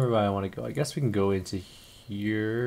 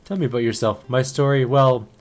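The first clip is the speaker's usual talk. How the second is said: put-on broken English accent; 4 dB louder than usual. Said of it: "Oh, she's got weird English".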